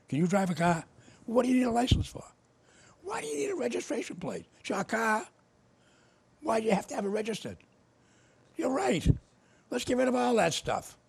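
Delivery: high, loud, needling rhetorical questions; mock-incredulous taunting. Mocking a radio host in a debate, high and loud. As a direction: pitch up and goad him like a debater.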